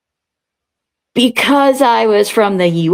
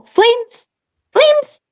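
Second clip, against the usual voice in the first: high, breathy "flames" quote; imitating Mrs. White's line; Madeline Kahn; 14 semitones higher than usual. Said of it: "I love Madeline Kahn in that movie".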